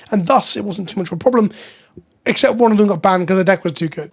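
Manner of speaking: dry deadpan understatement; sarcastic. Acted. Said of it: "I'm being a bit sarcastic there".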